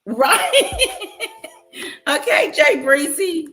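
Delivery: loud, high, hyped-up yelling; caffeinated yelling. Real, not acted. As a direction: shout it out, buzzing on caffeine. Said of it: "Yeah, I'm yelling. I know the caffeine is kicked in".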